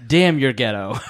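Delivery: imitating the daughter's outburst, not fully shouted; mock yell. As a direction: throw out the daughter's line with a half-hearted yell. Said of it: "she said".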